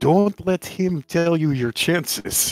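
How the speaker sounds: loud, theatrical stage whisper. Leaning in toward Arthur at the table during the game, stage whisper. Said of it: "I lean in and stage whisper to Arthur".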